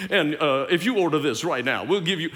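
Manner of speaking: lightly mocked ad pitchman, pitched low; TV commercial pitch. Preacher mocking TV ads, put-on pitchman voice. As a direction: imitate a phony commercial salesman. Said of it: "on T V, on commercial".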